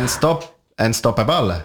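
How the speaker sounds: unstoppable with a Spanish accent, un-stop-A-bal with every syllable sounded; restart, then say unstoppable the Spanish way, unstop-a-bal. Shown as a demonstration. Asked by cohost to say it in Spanish accent so they can laugh, mild Spanish-accented unstoppable. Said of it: "juste le mot anglais avec l'accent espagnol".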